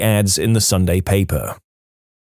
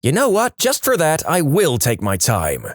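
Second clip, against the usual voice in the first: higher-pitched mock-indignant retort, slowing at the end; retold snappy comeback, pitched up at the start; snapped retort; 4 semitones higher than usual. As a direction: act out a piqued customer snapping back. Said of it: "again she snapped back and said".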